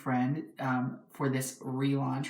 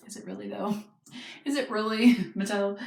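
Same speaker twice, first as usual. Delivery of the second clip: sarcastic; 6 semitones higher than usual. Real, not acted. Mocking the box's cheerful claim.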